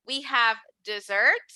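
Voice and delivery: dessert with the stress on -SERT; des-SERT, the weight at the end; stress on the second syllable. Shown as a demonstration. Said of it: "So if I say dessert".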